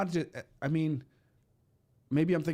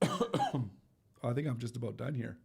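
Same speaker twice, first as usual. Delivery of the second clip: worn out from coughing; 5 dB quieter, much slower than usual. Real, not acted. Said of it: "My voice is gone".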